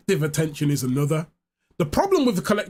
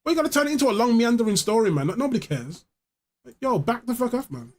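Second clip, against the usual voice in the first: exasperated; 4 semitones higher than usual. Retold or imitated. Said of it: "I'm like".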